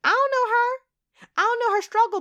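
high, loud, mock-distraught wail; half-laughing at her own tears, voice climbing high and loud; overwhelmed upset. Real, not acted. Admitting to listeners she's teary over a game girl, high loud mock wail. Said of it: "I don't even know why I'm upset".

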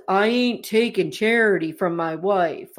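lightly voiced husband, a touch deep and monotone; deep monotone imitation. Husband turning down his wife's help, imitated deep monotone. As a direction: imitate him in a slightly deepened monotone. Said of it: "he's got this real deep monotone voice".

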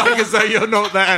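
talking through real laughter; can barely get the words out for giggling; laughing. Real, not acted. GM laughing at kissing NPCs.

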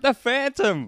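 high, loud crowd yell; bellowed nickname from the terraces. Retold or imitated. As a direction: call it out from the stands, half laughing. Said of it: "I'm yelling out".

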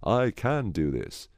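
slow, deliberate try at sounding sure; forced confidence. Shown as a demonstration. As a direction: say it slowly, trying to believe it. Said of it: "if I try to be confident".

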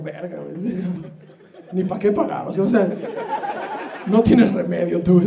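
mild disgusted trainer. Retold or imitated. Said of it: "me voltea a ver así como con asco".

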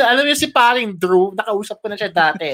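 teasing imitation of a co-host's familiarity; mock a friend bragging about a famous pal; Stan, chummy with Drew. Co-host teases host as Drew's close friend, chummy imitation. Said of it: "That's what you sound like".

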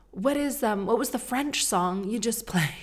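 high polite mom voice; polite ask. Retold or imitated. Mom asking boys politely.

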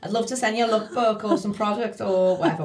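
hammed-up Scouse caller; Scouse accent. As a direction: put on a Scouse accent for a sales call. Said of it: "here's my Scouser accent".

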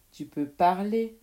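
loud comeback; sharp retort. Acted. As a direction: hit back forcefully. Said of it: "répliqua l'autre".

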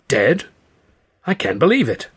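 rising, incredulous voice; bewildered thug; stunned disbelief. A narrator's reading. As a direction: pitch climbing in shock. Thug stunned by boss's death.

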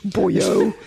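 laughing imitation of a bad Welsh accent; mock Welsh accent. Panel member mocking the auditioning actor's Welsh accent. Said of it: "And that Welsh accent".

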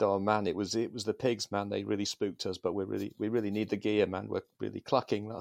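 shaky pleading addict voice; shaky junkie voice. Acted. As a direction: sound desperate for a fix. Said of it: "I put my best shaky voice on".

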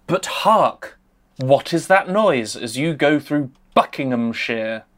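put-on lightly theatrical old-style narrator; a hint of a grand stage actor; hammy stage actor. Theatrical narration with hark, my dear.

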